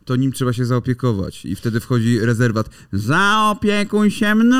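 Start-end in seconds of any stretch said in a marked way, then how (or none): 2.9-4.6 high, very slow whimper; whiny sick man. Acted. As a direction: beg like a sulking sick man. (jęczący chory facet)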